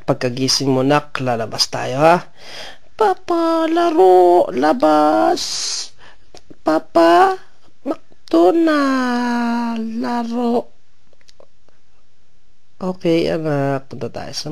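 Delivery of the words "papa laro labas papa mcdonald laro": excited pleading. Real, not acted. Child begging to go play.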